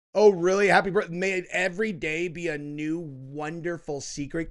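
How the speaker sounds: scoffing repeat of a quote, loud at first; mocking disbelief. Commentator ridiculing a birthday letter's wording, mocking disbelief. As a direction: start loud and incredulous, then mock the quoted line. Mocks the line just read.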